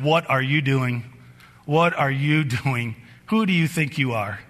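slow, weighted questions; God's stern rebuke. Retold or imitated. God grabbing hold of a father, slow stern rebuke. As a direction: lean slowly on every word, confronting. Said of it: "God grabbed a hold of me and said".

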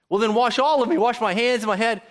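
mock Peter blurting it out; eager Peter.

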